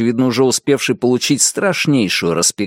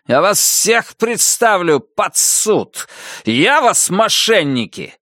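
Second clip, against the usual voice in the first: shrieking furious major; 8 semitones higher than usual. A narrator's reading. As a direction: shriek the accusations down the line. Major gives orders, threatens.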